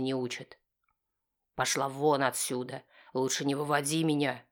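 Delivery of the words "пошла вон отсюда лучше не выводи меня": ordinary delivery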